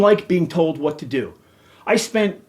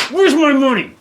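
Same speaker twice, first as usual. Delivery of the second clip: much higher and louder shouted repeat; shouting again at the association over the money; angry shout; 8 semitones higher, 6 dB louder than usual. Real, not acted. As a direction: yell the demand, escalating. Ranting at the homeowners association.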